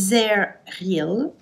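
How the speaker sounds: brand name said slowly in a French-tinged English accent. Real, not acted. Reading a mascara name to viewers in English accent. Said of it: "avec mon super accent anglais".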